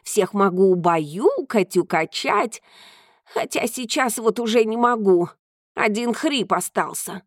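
a hint of a proud cat; lightly voiced cat. Cat speaking.

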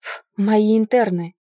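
huffy, snorted retort; mildly exasperated man's voice; irritated snort. A narrator's reading. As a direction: puff out scornfully, then say it firmly. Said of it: "фыркнул мужчина".

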